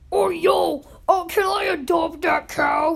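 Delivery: high, loud and thrilled; excited shout. Retold or imitated. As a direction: beg to adopt it in a shout. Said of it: "I'm like".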